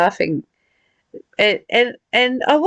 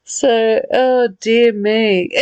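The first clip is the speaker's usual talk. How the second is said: laughing, winding down; 2 semitones higher, much slower than usual. Real, not acted. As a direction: sigh it out between giggles.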